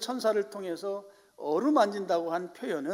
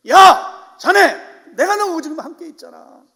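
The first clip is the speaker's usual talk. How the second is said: loud, high calling voice of God; 10 semitones higher, 19 dB louder than usual. Acted. God calling out to lonely Elijah, loud and high. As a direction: boom it out like God calling a friend. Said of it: "하나님이 천사를 보내셔서 그를 어루만지시면서".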